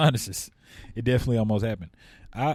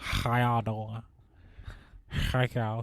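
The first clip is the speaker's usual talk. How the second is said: mock nasal, congested voice, quieter, much slower; 6 dB quieter than usual. Speaker shows how he used to talk with terrible sinuses, imitating own old stuffy voice. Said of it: "Like that's how I used to talk".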